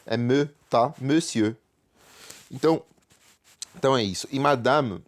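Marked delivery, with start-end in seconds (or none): 1.0-1.6 Monsieur as "meu-siø", silent r; French pronunciation. Shown as a demonstration. Teacher repeating the word for students, careful French pronunciation. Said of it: "pronuncia como O. É me".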